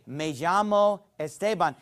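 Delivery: "Me llamo Esteban," said with Spanish sounds and "llamo" as /ʒamo/; Spanish pronunciation. Shown as a demonstration. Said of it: "I could say".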